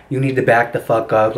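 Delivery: low, no-nonsense dad voice; father's voice. Retold or imitated. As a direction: drop low and warn them off. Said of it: "my tone is pitched down to, like, the fullest extent".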